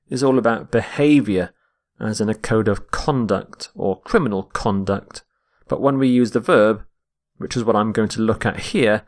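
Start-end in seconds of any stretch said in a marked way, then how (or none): 2.9-5.2 both times "conduct" as CON-duct; noun stress. Shown as a demonstration. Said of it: "when we're using the noun".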